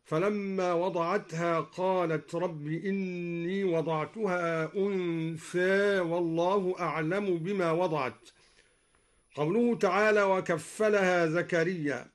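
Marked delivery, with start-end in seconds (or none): 0.0-8.3 slow recitation, أنثى ending like "unthe"; taqlil on أنثى. Shown as a demonstration. Teacher demonstrating al-Duri's أنثى in the verse, with taqlil. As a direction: raise the final a of أنثى halfway to e. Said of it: "وقلل أنثى من قوله تعالى".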